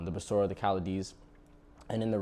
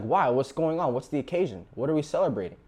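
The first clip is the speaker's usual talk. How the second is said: demanding brother; 5 semitones higher, 4 dB louder than usual. Retold or imitated. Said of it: "He's like".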